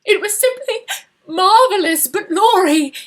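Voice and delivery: high, loud no, breaking into a sob; sobbing. Acted. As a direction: cry it out through tears. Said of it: "sobbed Laura".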